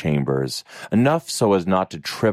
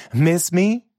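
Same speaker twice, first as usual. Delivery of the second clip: teasing light question; playful; 12 semitones higher than usual. A narrator's reading. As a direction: tease him gently. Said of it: "with a playful smile".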